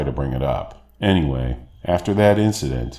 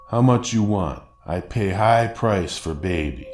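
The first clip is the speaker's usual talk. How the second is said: put-on Russian accent; 3 semitones higher than usual. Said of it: "heavy Russian accent".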